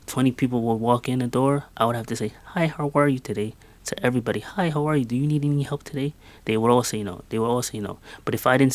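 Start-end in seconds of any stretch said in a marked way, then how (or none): 2.5-3.5 a higher, forced-cheerful greeting; squeaky retail voice. Retold or imitated. Shop worker greeting every customer at the door, squeaky fake voice. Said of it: "a squeaky voice that was not mine". 4.4-6.1 higher put-on clerk voice, rattled off fast; squeaky retail voice. Retail worker offering help to walk-ins, fast squeaky fake greeting. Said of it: "a squeaky voice that was not mine".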